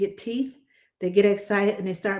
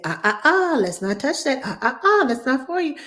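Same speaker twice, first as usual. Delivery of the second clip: warning parent; 6 semitones higher, 3 dB louder than usual. Retold or imitated. Warning baby not to touch.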